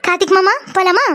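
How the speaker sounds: sweet request after a little laugh; smiling, affectionate. Acted. Young woman obliging his demand to call him mama, smiling sweetly. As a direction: ask nicely with a smile, as told. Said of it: "அழகா, சிரிச்சுட்டே, ஆசையா கூப்பிடணும்".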